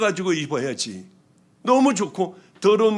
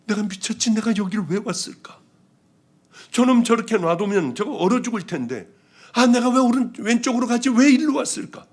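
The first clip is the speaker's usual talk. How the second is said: exasperated inner grumble; 7 semitones higher, 4 dB louder than usual. Retold or imitated. Grumbling to herself about the cold man.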